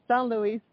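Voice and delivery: "Saint Louis" said the French way; French pronunciation. Real, not acted. Guest admits saying the city wrong, French pronunciation. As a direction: say "Saint Louis" with French nasal vowel, silent T. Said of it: "I'm gonna say it the wrong way".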